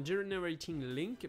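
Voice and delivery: English words in a French accent. Real, not acted. YouTuber reading a button name to viewers, self-mocked English accent. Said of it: "merci mon accent anglais".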